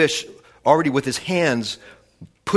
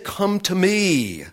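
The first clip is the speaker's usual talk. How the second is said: slow, raised, drawn-out call; open invitation; 6 semitones higher, much slower than usual. Acted. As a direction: stretch it high and let "me" fall. Preacher voices Jesus's invitation.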